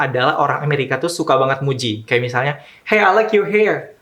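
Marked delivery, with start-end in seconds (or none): 2.8-3.9 much higher, bubbly complimenting voice; gushing American compliment. Retold or imitated. A stranger complimenting your hair, mock gushing. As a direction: gush over a stranger's hair.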